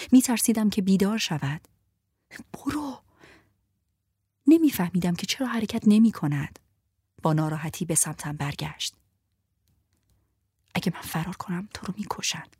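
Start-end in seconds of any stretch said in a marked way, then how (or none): 2.5-3.0 urgent whisper. Acted. Urgent command to flee. 10.7-12.5 soft hushed warning; grave whisper. Acted.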